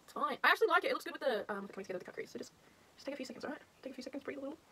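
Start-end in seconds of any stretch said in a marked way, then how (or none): 2.4-4.6 whispered, calming herself down; soothing whisper. Real, not acted. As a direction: breathe it out in a whisper to yourself. Calming herself over eyebrows.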